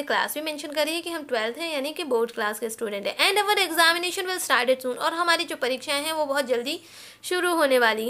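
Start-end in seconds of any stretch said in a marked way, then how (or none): 3.2-5.0 very slow, word by word; slow, careful dictation. Shown as a demonstration. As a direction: dictate it slowly for copying. Dictating letter line.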